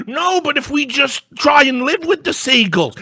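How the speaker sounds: high, pleading mock voice; mocking a weak appeaser, high and whiny. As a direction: whine it like a spineless compromiser.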